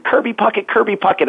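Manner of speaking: put-on high little-boy voice, "Kirby Puckett" said correctly; child saying the name. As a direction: call the name like an excited first-grader. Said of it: "I actually said".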